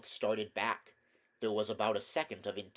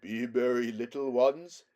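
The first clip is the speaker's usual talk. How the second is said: louder, lighter lion voice; 7 dB louder than usual. A narrator's reading. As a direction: cheer the little ones with regal kindness. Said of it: "spoke in a lighter voice".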